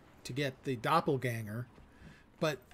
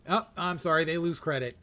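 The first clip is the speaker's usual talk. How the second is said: mock judge; 3 semitones higher, 7 dB louder than usual. Mock judge rejecting player names.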